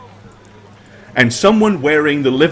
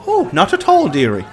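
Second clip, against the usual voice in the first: barmaid voice; 2 semitones higher than usual. Acted. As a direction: chirp it like a kindly barmaid. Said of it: "She said".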